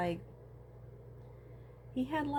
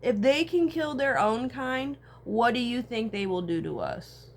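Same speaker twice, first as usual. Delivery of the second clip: emphatic warning; 3 semitones higher, 6 dB louder than usual. Real, not acted. Rant warning about humans.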